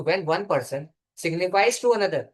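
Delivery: the English definition spelled out very slowly; slow dictation. Shown as a demonstration. Law teacher reading the definition aloud for students, very slow. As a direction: dictate each word deliberately. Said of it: "repeats definition slowly for notes".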